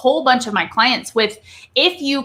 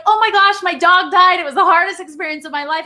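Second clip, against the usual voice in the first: mismatched cheerful; 6 semitones higher, 4 dB louder than usual. Shown as a demonstration. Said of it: "you don't sound sad".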